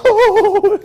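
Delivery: high, hammed-up despairing oh; mock hand-wringing moan. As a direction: wail it like someone wringing their hands. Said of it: "wring your hands and go".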